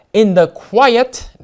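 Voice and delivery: "quiet" drawn out slowly for emphasis; "quiet" given slow, deliberate weight; stress on quiet. Real, not acted. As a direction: lean on the word "quiet", taking it slowly. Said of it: "emphasis on the word quiet".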